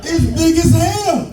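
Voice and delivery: high, slow, laughing mock dad; a slow, high, hammed-up dad laughing at his son. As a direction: tease the kid's nose while cracking up. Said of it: "My dad says".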